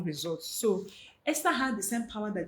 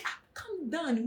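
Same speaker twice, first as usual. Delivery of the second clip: slow, higher-pitched mild soothing; gentle calming; 5 semitones higher, 4 dB quieter, slower than usual. Retold or imitated. Listener answering someone who always sounds angry, gently calming. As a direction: imitate calming someone down, drawn out. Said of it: "their voices are always high. And you're like".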